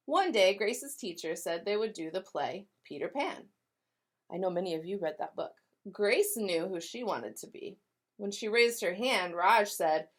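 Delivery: lively read-aloud with voiced characters; storybook narration. A narrator's reading. Teacher reading to kindergartners, animated storytelling. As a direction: tell it like a picture book for kids.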